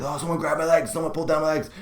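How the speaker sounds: high-pitched retelling of a spooked dad; mock alarm. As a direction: lightly imitate a man in alarm. Dad reporting being grabbed.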